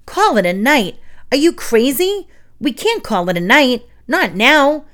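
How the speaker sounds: loud, high-pitched incredulous protest; frenzied outrage. A narrator's reading. Roach protests to Emilio about ending trick-or-treating, frenzied. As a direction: rattle it out, appalled and over-excited. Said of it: "Roach gasped".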